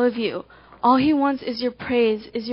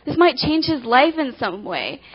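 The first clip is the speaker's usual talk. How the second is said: a touch of eager excitement; acted excitement; 2 semitones higher than usual. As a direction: lightly play someone thrilled to help. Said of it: "he was excited".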